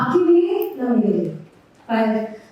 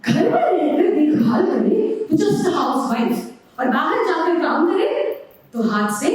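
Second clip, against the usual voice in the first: poem recitation. Acted. Poet advising an unborn daughter Noor, measured recitation.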